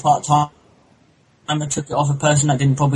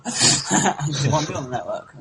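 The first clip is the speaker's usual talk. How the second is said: laughing; slower than usual. Real, not acted. Joking about the network.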